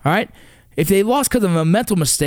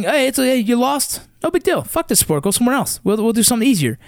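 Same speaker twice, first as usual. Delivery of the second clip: lightly mocking, higher-pitched consoling parent; put-on higher voice, brushing the loss off; mock lenient parent; 3 semitones higher than usual. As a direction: imitate a parent letting the kid off easy. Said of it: "if you're sitting there saying".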